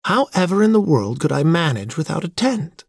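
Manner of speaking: high-pitched, fussy dismay; dainty dismay. A narrator's reading. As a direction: protest in a high, helpless feminine voice. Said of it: "throwing up her hands in dainty dismay".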